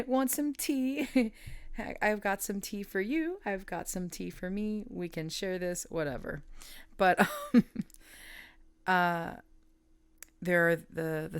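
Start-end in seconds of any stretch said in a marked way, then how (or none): 0.1-5.8 playful sharing voice. Retold or imitated. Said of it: "And it's".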